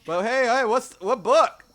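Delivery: high, loud, drawn-out what book; excited high-pitched question; eager curiosity. Acted. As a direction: perk up, desperate to know. NPC eager about book.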